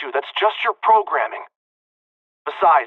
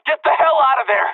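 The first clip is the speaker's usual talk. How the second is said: urgent shout; 4 semitones higher than usual. Acted. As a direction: shout the warning hard. Urgent warning to flee guards.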